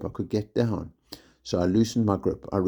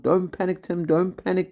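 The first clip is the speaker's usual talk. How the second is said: yelled; 11 semitones higher than usual. A narrator's reading. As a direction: shout it down the cliff. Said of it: "Kelly yelled".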